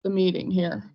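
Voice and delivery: every phrase heard twice on the call; doubled echo on the line. Real, not acted. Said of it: "I'm still echoing".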